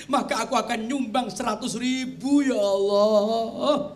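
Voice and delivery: mock weeping plea; mock lament. Dead donor regretting his small gift, mock lament. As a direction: wail half-jokingly to God. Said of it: "langsung nangis ibu-ibu".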